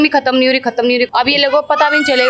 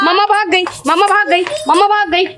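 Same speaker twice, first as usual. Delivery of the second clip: higher, sing-song teasing; playful taunting; 6 semitones higher than usual. Real, not acted. Chase game, taunting the kids.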